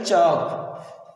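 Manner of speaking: slow "चौक", said "chawk"; चौक drawn out. Shown as a demonstration. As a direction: stretch the O in "चौक", no L. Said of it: "क्या पढ़ा जाएगा बेटा".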